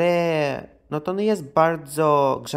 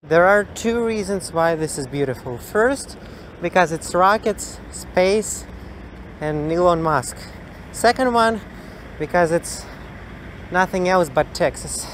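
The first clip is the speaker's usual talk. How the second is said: lightly voiced drawling cowboy; 3 semitones higher than usual. Vlogger playing cowboy to viewers, lightly voiced cowboy. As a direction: play a friendly Texas cowboy.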